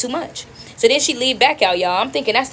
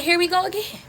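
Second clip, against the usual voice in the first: high-pitched dismay; 8 semitones higher, 3 dB quieter than usual. Retold or imitated. Own reaction to mother returning.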